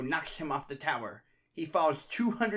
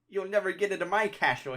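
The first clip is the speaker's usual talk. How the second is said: shouting; 3 semitones higher, 3 dB louder than usual. Acted. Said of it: "he shouts".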